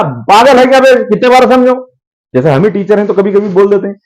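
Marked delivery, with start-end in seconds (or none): 0.0-1.8 mock irritation. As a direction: imitate an exasperated teacher fed up with repeats. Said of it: "सामने वाला चिढ़ेगा". (चिढ़े हुए आदमी की नकल)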